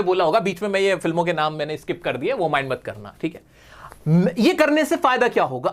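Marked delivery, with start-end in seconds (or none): 2.3-3.4 softly whispered, low, confiding; a hushed aside to the viewers. Real, not acted. Teacher whispers to students not to mind the skipped names, hushed.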